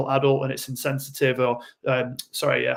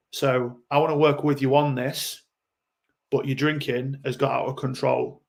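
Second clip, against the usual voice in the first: rational adult. Shown as a demonstration. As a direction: talk it through gently as a level-headed adult. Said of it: "rational adult".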